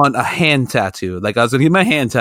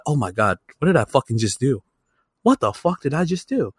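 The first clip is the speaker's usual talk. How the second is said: dream panic hushed; 6 dB quieter than usual. Retold or imitated. Reliving the dream tattoo, hushed and panicked. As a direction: mutter it in quiet dread. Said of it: "And I'm just like".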